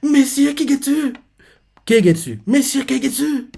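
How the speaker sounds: slow, high, swooning call; besotted silly girl. Retold or imitated. Reader mocks foolish Ochu calling her suitor, swooning. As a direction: draw the name out in a high voice. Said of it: "idiote comme elle est".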